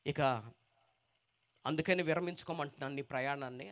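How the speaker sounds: soft, sorrowful lament; a broken father's quiet plea; grieving father. Acted. Grieving father tells Jesus. (దుఃఖంతో మెల్లగా చెప్పే తండ్రి)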